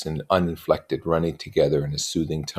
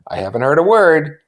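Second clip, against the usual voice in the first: put-on higher young woman voice; Jordan voice; 10 semitones higher, 9 dB louder than usual. A narrator's reading. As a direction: lift into a light high voice.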